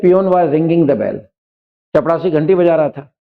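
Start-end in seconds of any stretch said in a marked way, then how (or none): 0.0-1.2 slow dictation. Shown as a demonstration. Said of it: "जैसे".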